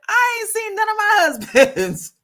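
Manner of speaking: high, mock-casual retold line; mock sassy quote. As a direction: toss it off teasingly. Retelling her own high quote.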